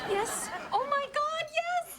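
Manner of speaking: high, gleeful yes; cheering in delight; high-pitched thrilled cheer; excited. Acted. Cheering the moment.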